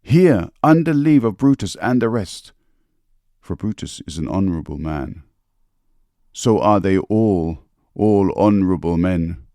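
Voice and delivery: lightly acted funeral oration, measured with long pauses; Mark Antony oration. Speaker recites a famous speech to refresh listeners' minds, lightly declaimed. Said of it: "that famous speech by Mark Antony".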